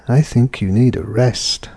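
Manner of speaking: firm falling command on "rest". Shown as a demonstration. Teacher voicing the father's command to the son, firm fall. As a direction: tell him to rest, falling and final.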